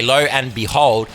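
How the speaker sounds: "lo and behold" drawn out slowly, each word stretched; slow, savoured "lo and behold"; slow catchphrase. Shown as a demonstration. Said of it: "this is my phrase of the day".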